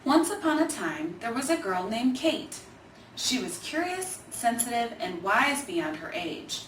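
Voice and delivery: put-on gentle, lively read-aloud for children; storybook narration. A narrator's reading. Reader telling children a story about grandpa, in a gentle storybook voice. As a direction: tell it like a bedtime picture book. Reads picture book aloud.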